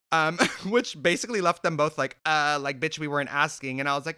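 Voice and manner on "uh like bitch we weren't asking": mock snippy. Managers snapping back.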